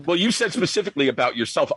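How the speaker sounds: high amused laughter; laughing. Retold or imitated. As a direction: laugh through the words. Laughing retelling her amazed remark.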